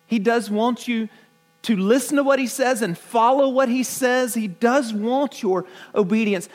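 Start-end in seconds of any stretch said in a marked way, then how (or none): none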